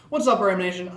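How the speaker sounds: laughing through the intro; giggling, can't keep it straight. Real, not acted. Retake after spit blooper.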